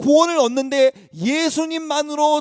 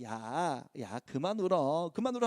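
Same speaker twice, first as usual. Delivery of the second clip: much softer, lower hushed comfort; older siblings hushing the new boy; 7 semitones lower, 10 dB quieter than usual. Retold or imitated. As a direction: quietly settle a crying little brother. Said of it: "달래주니까".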